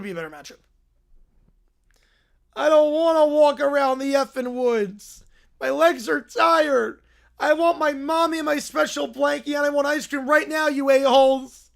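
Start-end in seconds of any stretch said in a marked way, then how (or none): 2.6-11.7 whiny complaining. Acted. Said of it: "Why am I helping this whiny little crap?".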